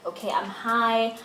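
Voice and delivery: slowly, sounding dazed; slow, dreamy daze. Retold or imitated. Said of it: "makes me feel like I'm high".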